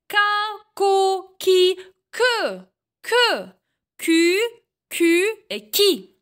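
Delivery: chaque syllabe en « j » détachée avec soin; syllabes articulées. Shown as a demonstration. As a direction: montre la syllabe, puis une pause. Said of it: "لاحظوا جيدا النطق". (syllabes en « j » dictées au professeur)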